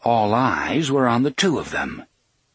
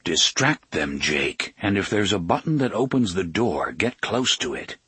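low, steady voice in the mind; Roland, lower and calm; 3 semitones lower than usual. Acted. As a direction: Roland speaking calmly inside Jake's head.

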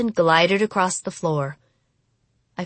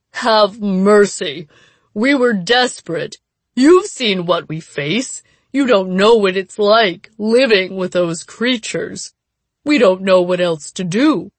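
desperate pleading; 4 dB louder than usual. Acted.

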